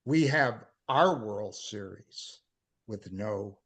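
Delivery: slow, dramatic recital with drawn-out words; poem reading. Acted. Poet reading baseball poem about wife, dramatic recital. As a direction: lift the line openings, stretch key words, let endings drop.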